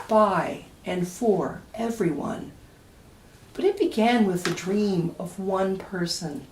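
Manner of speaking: lively, sing-song picture-book reading; reading to children. A narrator's reading. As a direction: read it aloud to a room of kids.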